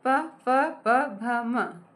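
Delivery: प, फ, ब very slow and drawn out; slow drill. Shown as a demonstration. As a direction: spell out प, फ, ब one by one, slowly. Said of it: "आप सभी मेरे साथ ट्राई कीजिए". (धीरे धीरे उच्चारण)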